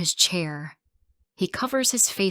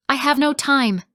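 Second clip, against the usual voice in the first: angry retort; 8 semitones higher, 7 dB louder than usual. Acted. Husband snaps back in quarrel.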